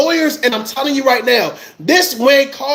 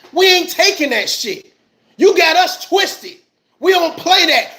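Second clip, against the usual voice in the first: mock angry protest. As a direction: play the offended community, getting heated. Voicing angry black community.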